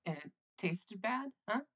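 ordinary delivery

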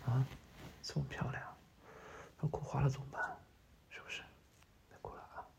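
very soft, breath-light soothing; whispery, tender murmur; hushed comforting. Acted. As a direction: hush someone crying in your arms. Comforting a crying partner with hugs.

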